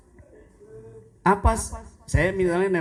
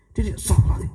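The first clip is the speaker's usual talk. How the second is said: startled exclamation; 7 semitones higher, 5 dB louder, much faster than usual. Retold or imitated. Startled by ringing during prayer.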